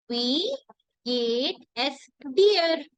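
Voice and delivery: "Wie geht es dir" drawn out, "dir" stretched; teacher slowly modelling "Wie geht es dir"; slow model. Shown as a demonstration. Teacher showing the informal question to students, slowly. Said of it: "then I would say".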